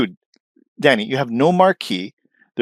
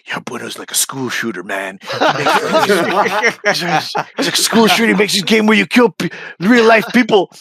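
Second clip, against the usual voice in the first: mock fans gossiping; 7 semitones higher than usual. Mocking fans calling him a school shooter, mock whine. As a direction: sneer like a gossiping fan.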